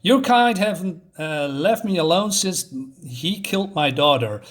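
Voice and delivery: retold scolding with jumps in pitch; mild mock scolding. Grieving mother berating Nina as a leech, mock scolding. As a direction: lightly act out an indignant telling-off. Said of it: "so she's scolding her".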